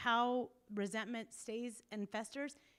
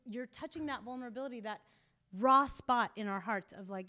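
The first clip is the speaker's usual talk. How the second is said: usual speaking voice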